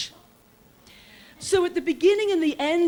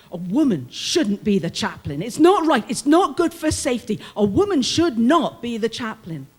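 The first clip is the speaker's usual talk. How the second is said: insistent, louder mock protest; complaining guards; 5 dB louder than usual. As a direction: imitate the guards' indignant grumbling.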